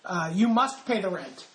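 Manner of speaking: slow, hammy melodrama villain; lightly voiced stage villain demanding rent; mustache twirling villain. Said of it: "that's a different radio drama".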